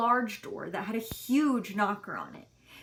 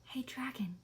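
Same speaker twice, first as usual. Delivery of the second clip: very soft breathy whisper; 12 dB quieter than usual. A narrator's reading. Elizabeth testing if the sleeping dragon wakes, whispered. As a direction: barely whisper it, no voice. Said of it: "whispered very softly".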